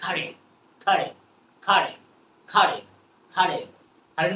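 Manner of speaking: খাড়ে repeated short and clipped; repetition drill. Shown as a demonstration. Teacher drilling খাড়ে for the viewers, repeated. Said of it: "repeating drill".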